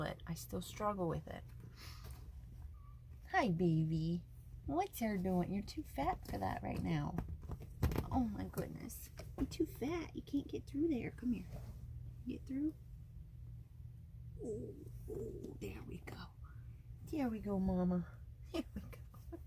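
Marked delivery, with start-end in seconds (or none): 3.3-12.7 cooing to the cat. Real, not acted. Talking to her cat. 14.4-19.4 hushed, breathy coaxing; soft whisper to cat. Real, not acted. To her cat getting through, soft whisper.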